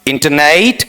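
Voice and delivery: इंटरनेट as "inta-nait", rising; इंटरनेट with an ai glide at the end; third variant. Shown as a demonstration. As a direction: widen the last vowel of इंटरनेट to "nait". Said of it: "तीसरा".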